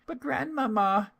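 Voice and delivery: put-on very high, wondering child's voice; little girl's voice. A narrator's reading. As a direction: marvel like a small girl. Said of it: "said the little girl".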